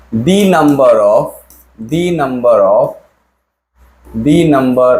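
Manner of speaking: the number of, drawn out slowly; teacher stressing "The number of"; slow emphatic phrase. Shown as a demonstration. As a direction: spell out "the number of" word by word. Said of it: "singular verb लेता है".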